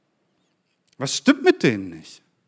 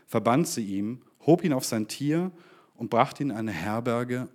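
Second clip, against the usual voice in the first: scripture reading. Acted. Preacher reading the Good Samaritan to the congregation, measured. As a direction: read the parable with weight. Reads the parable aloud.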